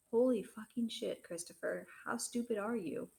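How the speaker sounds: slow, stunned angry swearing; angry outburst. Acted. Father blows up at Christopher over his book, angry and slow. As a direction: let the curse drag out in disbelief.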